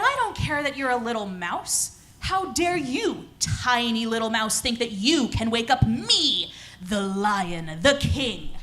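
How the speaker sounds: lightly voiced offended lion king; indignant lion. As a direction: scold a tiny mouse with drawn-out royal indignation. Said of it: "And the lion said".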